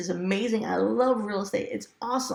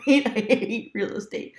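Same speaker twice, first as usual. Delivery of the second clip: mock despair; slower than usual. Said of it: "Now you're back to".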